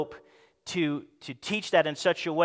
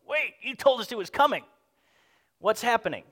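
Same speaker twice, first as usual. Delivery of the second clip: higher-pitched puzzled protest; confused disciples; 5 semitones higher than usual. Acted. Preacher imagines disciples questioning Jesus, confused protest.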